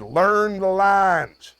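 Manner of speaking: quoted actor's advice. Retold or imitated. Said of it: "He said".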